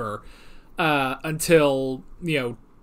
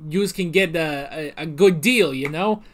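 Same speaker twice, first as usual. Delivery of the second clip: a light thick New York accent, imitating a shady official. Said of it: "giving him a thick New York accent".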